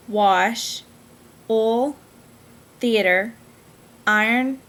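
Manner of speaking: reading each word in her own Southern dialect; dialect word list. Shown as a demonstration. Reading her dialect vlog word list aloud, carefully. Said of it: "the words I have to say are".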